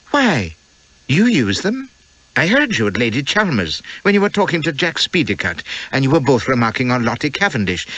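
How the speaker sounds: lightly voiced young wife, innocent question; a guileless young wife asking outright; Elspeth's voice. Wife to husband in the dark cabin, lightly innocent.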